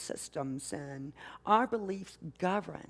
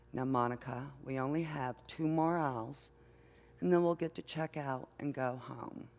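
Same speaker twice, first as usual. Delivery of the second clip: gentle mother; 4 semitones lower, 5 dB quieter than usual. Retold or imitated. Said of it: "the mother says very gently".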